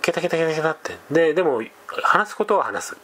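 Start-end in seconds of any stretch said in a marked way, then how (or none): 0.0-0.7 lightly mimicked cackle, ケタケタケタケタ said again the same way; understated cackling laugh; imitated cackle. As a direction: echo the lady's cackle mildly. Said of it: "って言って".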